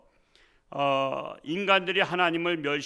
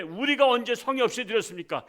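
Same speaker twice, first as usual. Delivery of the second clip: higher and louder, defiant retort; indignant protest; 6 semitones higher, 5 dB louder than usual. Retold or imitated. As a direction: argue back at the dictator. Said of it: "만약에 김정은한테".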